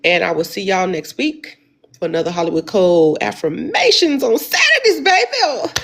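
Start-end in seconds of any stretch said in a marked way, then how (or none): 2.0-5.7 excited. Real, not acted. Hyped sign-off to followers.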